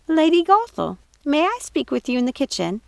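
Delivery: put-on high, fluttering old housekeeper; befuddled and horrified. Mrs Tittlebottom asks Gothel aside, befuddled. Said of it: "befuddled and horrified".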